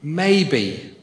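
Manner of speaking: Maybe leaned on, slowed and falling; stress on maybe. Real, not acted. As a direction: hit the word Maybe with weight. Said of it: "I emphasize the word maybe".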